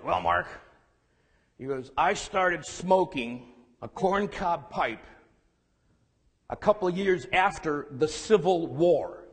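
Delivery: a lightly voiced gruff old man, slow; slow, gravelly grandpa drawl, only lightly put on. Grandfather answers his grandson in a hint of gruff voice. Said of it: "in that inimitable, gruff voice that he had".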